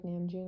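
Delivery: Namjoon with a flat English first vowel. Shown as a demonstration. Vlogger shows how she says it, Namjoon pronounced the English way. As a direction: say Namjoon as an English name, not Korean. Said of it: "I can't say Namjoon in a Korean".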